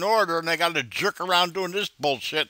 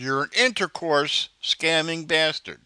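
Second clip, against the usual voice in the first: slow, deliberately measured insult; mock professional; slower than usual. Real, not acted. Caller mocking the scammer's call for professional language, slow and sarcastic. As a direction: deliver the insult with fake politeness. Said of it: "That's professional".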